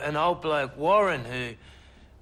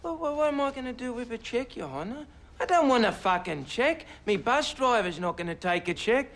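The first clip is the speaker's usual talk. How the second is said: raised, rapid protest to the judge; outraged disbelief; 6 semitones higher than usual. Acted. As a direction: splutter in outrage at a cheque. Witness outraged by cheque.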